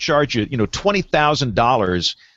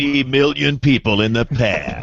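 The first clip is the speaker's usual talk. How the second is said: mock headline announcer. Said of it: "weather dot com headline fodder".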